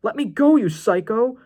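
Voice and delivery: high, loud panicked cry; acted frantic yell, pitch leaping up; desperate shout. A narrator's reading. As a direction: shout to break free of an attacker. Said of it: "Tristan shouted in desperation".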